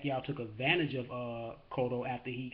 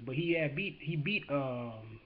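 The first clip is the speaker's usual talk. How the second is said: brain freeze; slower than usual. Real, not acted. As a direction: still stuck, dragging the words slowly. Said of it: "I got a brain freeze".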